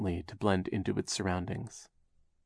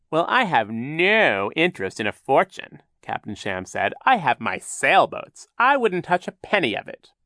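mournful voice; 7 semitones higher, 5 dB louder than usual. A narrator's reading. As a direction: fake grief, laid on thick. Sham denies wanting the fortune.

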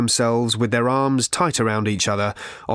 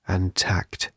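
coughed; 3 semitones lower, 3 dB quieter than usual. A narrator's reading. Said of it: "he coughed".

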